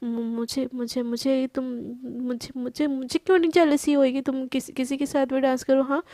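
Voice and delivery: nervous, tripping over her own words; flustered stammer. Acted. Priyanka caught off guard by Garima's question, stammering nervously. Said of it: "shock हो जाती है और थोड़ी घबरा जाती है".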